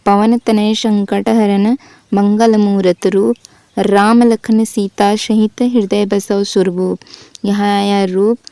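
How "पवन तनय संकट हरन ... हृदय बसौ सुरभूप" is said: slow, measured verse recitation; slow chanted Hindi doha; poem recital. Shown as a demonstration. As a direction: recite the couplet slowly and evenly. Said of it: "ये हम पढ़ लिए थे".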